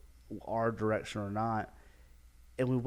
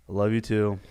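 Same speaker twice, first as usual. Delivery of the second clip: imitating a reluctant admission; forced; 5 dB louder than usual. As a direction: say it as if made to. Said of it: "It's like that, that forced".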